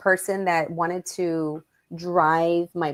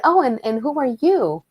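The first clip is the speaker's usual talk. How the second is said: nosy sarcastic; 5 semitones higher, 4 dB louder than usual. Retold or imitated. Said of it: "very claridosas".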